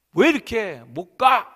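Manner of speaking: loud, high, drawn-out rebuke; scolding. Acted. Father telling off a child who can't pedal, scolding. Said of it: "하면서 야단을 칩니다".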